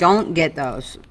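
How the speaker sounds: talking through sticky chewing; chewing sticky toffee. Real, not acted. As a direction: teeth stuck together with toffee. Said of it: "it's all stuck to my teeth".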